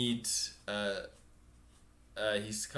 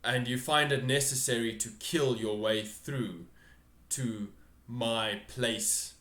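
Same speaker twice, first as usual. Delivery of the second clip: louder, building offended lord; indignant ruler; 5 dB louder, slower than usual. Acted. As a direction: swell with outrage at the intruders. GM voices the throne figure.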